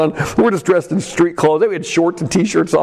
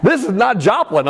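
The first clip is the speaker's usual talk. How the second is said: amazed exclaim; 5 semitones higher than usual. Retold or imitated. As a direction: blurt it out, dazzled. Retold awe at supermodel sighting.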